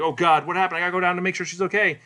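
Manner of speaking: alarmed. Retold or imitated. He sees her lying in blood, alarmed. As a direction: play it as a hurried, shocked reaction.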